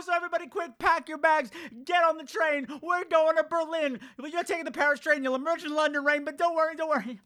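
high, breathy hyped voice; campy trailer voice. Pretend. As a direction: sell it like a giddy drag hostess.

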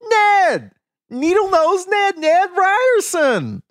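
high, loud, slow calling out; eager salesman calling across the street; Ned Ryerson greeting. Retold or imitated. Imitating Ned calling Phil.

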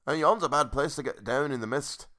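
another go at a Scottish lilt; rustic, not-quite-Scottish brogue; attempted Scottish accent. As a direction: raise the pitch and try for Scottish. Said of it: "I can't do Scottish".

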